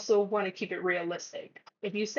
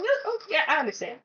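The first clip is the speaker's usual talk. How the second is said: jumps much higher on "No", then settles; mock backpedaling friend; 7 semitones higher, faster than usual. Friend quickly backpedaling after being called out, flustered. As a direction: hastily cover yourself.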